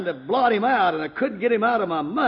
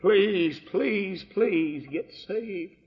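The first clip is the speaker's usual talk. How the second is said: tearful plea; much slower than usual. Retold or imitated. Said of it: "the tears running down her cheeks".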